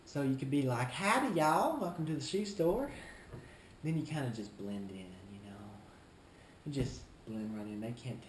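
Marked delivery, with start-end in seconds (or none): 0.9-2.9 put-on southern shop greeting; southern accent. Shown as a demonstration. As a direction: welcome them with a folksy southern accent. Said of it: "adopt a southern accent".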